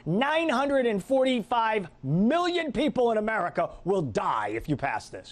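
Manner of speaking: slow, ominous mock announcer of disaster; mock doom forecast. Host mocking the budget office's scare tactics, slow ominous voice. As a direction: ham up the scary prediction, slow. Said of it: "something like this".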